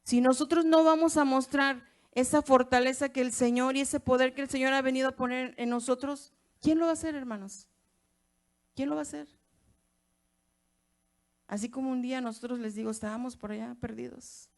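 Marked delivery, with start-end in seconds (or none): 0.0-9.3 louder, climbing to a high challenge; rally the church to act; preacher demands who will do it, voice climbing; preaching challenge. Real, not acted. Preacher's rising challenge to congregation.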